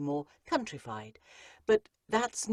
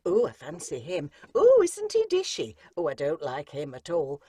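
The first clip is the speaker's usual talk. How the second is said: lightly voiced swooning girls at a ball; gushing debutantes; 6 dB louder than usual. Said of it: "all standing round a dance floor going".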